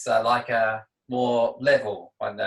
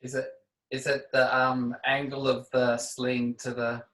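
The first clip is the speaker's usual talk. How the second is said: down a well. Real, not acted. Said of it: "you sound like you're down a well".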